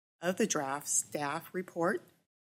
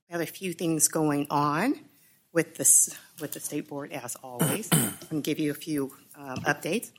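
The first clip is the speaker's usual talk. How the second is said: slightly out of breath, pausing. Real, not acted. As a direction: talk while catching your breath. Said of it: "Apologize that I am a little out of breath".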